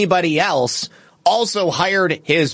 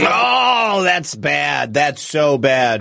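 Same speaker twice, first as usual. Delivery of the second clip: shocked outcry; much slower than usual. Real, not acted. Host reacts to the clip.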